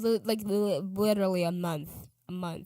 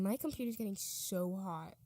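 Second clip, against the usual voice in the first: whisper; 6 dB quieter than usual. Real, not acted. Aside about hot computer.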